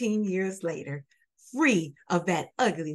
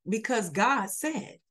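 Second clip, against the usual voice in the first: quoting back; slower than usual. Retold or imitated. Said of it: "you just said it".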